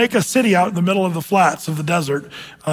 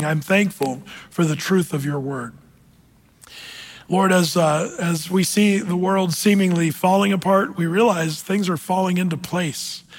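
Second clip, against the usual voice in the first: closing prayer. Real, not acted. Pastor closing the evening's teaching in prayer, earnest and settling.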